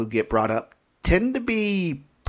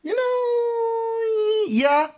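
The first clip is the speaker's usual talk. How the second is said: high squeak; much slower than usual. Real, not acted. Reacting to Jon Hamm.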